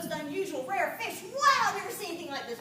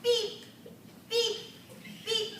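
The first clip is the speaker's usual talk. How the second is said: imitated dive computer beep; 6 semitones higher, slower than usual. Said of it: "screeched my underwater dive computer".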